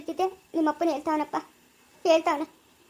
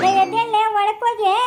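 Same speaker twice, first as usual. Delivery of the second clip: calling out loudly; 4 semitones higher, 4 dB louder than usual. Acted. Rousing the drunk woman.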